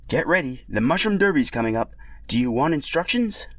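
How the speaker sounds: upbeat race announcer; announcer Toad voice. Acted.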